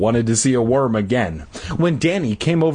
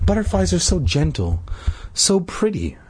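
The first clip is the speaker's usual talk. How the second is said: high, mildly dreamy admiration; tender admiration; 6 semitones higher than usual. A narrator's reading. Todd to Danny on his butterflies, tender. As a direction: pause before the last phrase, pitched up and gentle.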